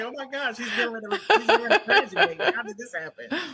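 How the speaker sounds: high, laughing mock astonishment; laughing disbelief. Mother retelling her son's graduation, laughing in disbelief. Mom marvels son is graduating.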